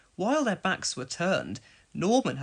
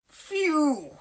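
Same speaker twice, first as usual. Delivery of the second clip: spluttering phew; 11 semitones higher, 4 dB louder than usual. A narrator's reading. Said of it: "spluttered Trevor".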